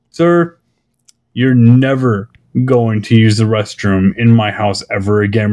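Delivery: a hint of a grave father laying down the law; stern British dad. A friend's father banning him from the bathroom, a lightly done stern voice. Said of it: "the way he comes across".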